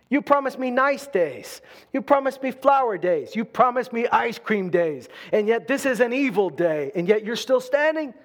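a hint of a grumbling believer complaining to God; complaining to God about evil days, mildly whiny; mock complaint. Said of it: "Maybe it doesn't look like victory to say".

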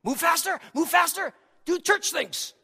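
high, pushy devil's urging; high-voiced mock goading. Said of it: "he'll have us put our foot on the accelerator".

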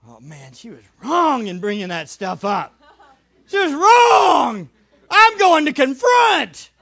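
righteous indignation boiling over; husband ranting to God about his wife; indignant outburst. Retold or imitated. Self-righteous prayer, shouted wrong.

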